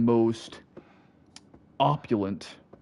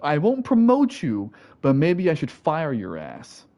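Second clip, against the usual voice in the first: mock boss retort; 4 semitones higher than usual. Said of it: "and he's like".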